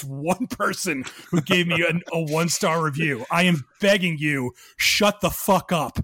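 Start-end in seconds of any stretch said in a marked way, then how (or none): 3.3-6.0 emphatic, slowing for the last words; exasperated plea. Real, not acted. Podcaster ranting at his one-star reviewer, exasperated plea. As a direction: beg them in comic exasperation, punching each word.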